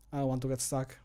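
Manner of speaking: usual speaking voice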